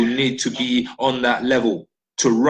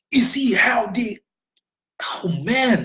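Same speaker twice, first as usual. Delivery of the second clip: awed whisper; 10 semitones higher, slower than usual. Real, not acted. Awe at flag devotion.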